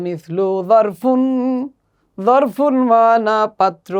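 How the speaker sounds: যারফুন said slowly with Arabic য; slow Arabic model reading. Shown as a demonstration. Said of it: "আসুন আমরা একসাথে পড়ি". (যারফুন ধীরে আরবি উচ্চারণে)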